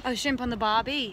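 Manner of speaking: lightly imitated Australian catchphrase; attempted Australian accent. Friend echoing the Australian catchphrase, light accent. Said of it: "Australian accent".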